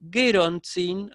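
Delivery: "gerontzin" drawn out slowly, ending in a rising tune; hypothetical form. Shown as a demonstration. Teacher showing students the expected form, slowly. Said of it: "la forma normal sería".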